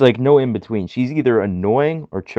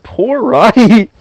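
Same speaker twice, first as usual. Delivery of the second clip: pitying; 11 semitones higher, 10 dB louder, much slower than usual. Retold or imitated. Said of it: "I'm just like".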